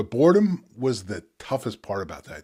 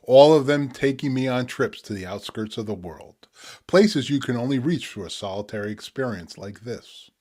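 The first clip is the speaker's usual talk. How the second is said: spoken word poetry. Acted. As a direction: let each image land, pause between. Reads his poem Strawberry Blues.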